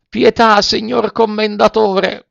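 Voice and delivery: very high, drawn-out begging; slow, high imploring puppet; pleading. A narrator's reading. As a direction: beg for mercy, stretching the title slowly. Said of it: "con voce supplichevole".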